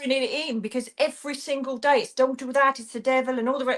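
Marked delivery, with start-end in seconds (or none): 2.1-3.4 mock warning in an Irish accent; scolding Irish voice, slightly raised. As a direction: slip into a passing Irish accent. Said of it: "I did an Irish accent".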